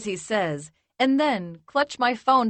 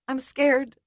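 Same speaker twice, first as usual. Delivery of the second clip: choking scared; 5 semitones higher than usual. Acted. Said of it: "between choking gasps".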